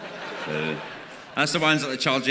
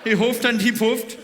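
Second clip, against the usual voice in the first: fairy-tale narrator; 8 semitones higher than usual. Acted. Comedian mocks the recording with a storybook voice, hammed-up. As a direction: ham up the big bad wolf tale.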